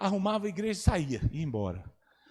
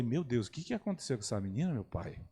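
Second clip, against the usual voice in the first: hushed inner prayer; 5 semitones lower, 8 dB quieter than usual. Retold or imitated.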